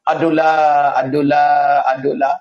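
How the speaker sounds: drawn-out moan of distress; acted suffering. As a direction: stretch it out like someone in torment. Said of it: "Kalau kita susah". (lakonan mengaduh kesusahan)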